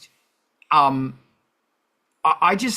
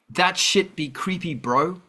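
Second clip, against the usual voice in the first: put-on New Zealand accent; 4 semitones higher than usual. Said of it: "in my best New Zealand accent".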